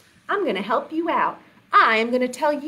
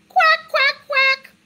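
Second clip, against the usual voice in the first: high, sharp quacks; squawked-up duck impression; duck quacking; 14 semitones higher, 4 dB louder, slower than usual. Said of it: "And George said".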